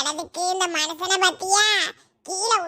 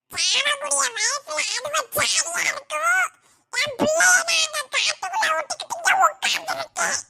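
anguished cry; 6 semitones higher than usual. Acted. Mother cries out for her child.

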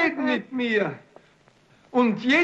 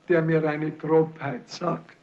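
ordinary talk

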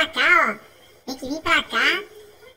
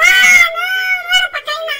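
high, loud, quick laughing groan; laughing dismay; 12 semitones higher, 7 dB louder than usual. Real, not acted. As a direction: laugh off the mistake, high and fast. Fell in the water.

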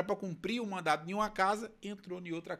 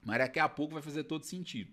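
usual speaking voice

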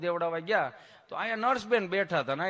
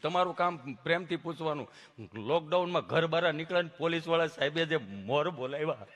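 imitated tongue-tied patient; stammering friend; 4 semitones lower than usual. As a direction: stick between phrases with humming blocks. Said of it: "જીભ જલાય, સોંટે અટકે".

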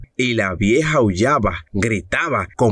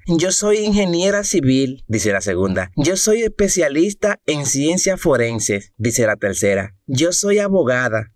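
women's voices; 4 semitones higher than usual. Acted. Mujeres presas responden.

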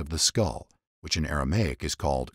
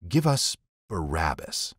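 crowd shouting; slower than usual. A narrator's reading. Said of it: "They shouted back".

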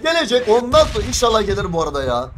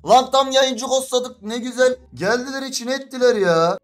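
worked-up, higher-pitched complaint; real anger; 4 semitones higher than usual. Real, not acted. Streamer venting about ghosters ruining his stream, angry and worked up. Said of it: "aşırı sinirlendim ya".

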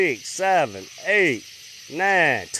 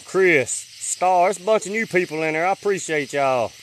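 out of breath. Real, not acted. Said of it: "I'm out of breath now".

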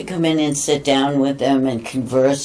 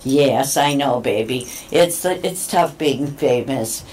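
talking to pet; 2 semitones lower than usual. Real, not acted. Cooing to the cat on camera.

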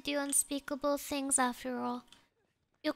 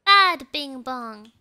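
loud scold, like to a naughty pet; play-scold with a hard first word; 2 semitones lower, 8 dB louder than usual. Pretend. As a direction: punch BAD loudly. Scolding the game's pursuer.

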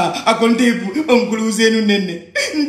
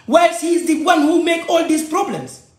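rising to a slow, indignant shout, a higher pitch; angry shout; 6 semitones higher, slower than usual. Real, not acted. To the audience about the boy blaming him, an angry shout. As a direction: shout out the unfairness of it. Ranting about being blamed.

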